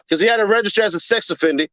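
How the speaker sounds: tumbles out fast and slurred; rushed fumble. Real, not acted. Streamer to chat, rushing the words in a quick slur. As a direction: gabble through it before correcting. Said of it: "pardon me".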